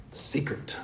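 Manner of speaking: whispered mock book title; hushed secret. Preacher mocking secret-selling book titles to congregation, hushed whisper.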